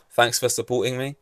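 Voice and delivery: mild sarcastic lilt rising at the end; understated mock gratitude. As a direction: let the thanks sound fake. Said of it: "that's sarcasm again".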